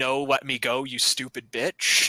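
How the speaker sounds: ordinary talk, nothing marked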